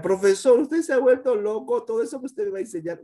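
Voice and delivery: high, loud mock student cry; hammed-up student protest, rushing at the end; outraged student. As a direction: squeal like a pupil who thinks teacher's mad. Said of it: "student addressing profesor".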